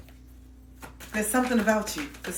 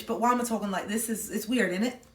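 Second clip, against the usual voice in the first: cheeky British accent; 3 semitones higher, 4 dB louder than usual. Real, not acted. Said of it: "a bit dodgy, a bit cheeky".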